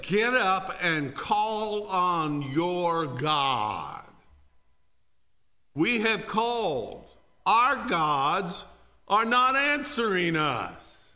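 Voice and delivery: slow, loud pleading; urgent sailors. Acted. Sailors urging Jonah to call his God, loud. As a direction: press him hard to get up.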